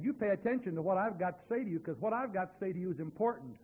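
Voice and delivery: loud firm rebuke, pressing each word; stern scolding. Retold or imitated. Preacher sternly rebuking the man in his own home. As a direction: lay down the law to him.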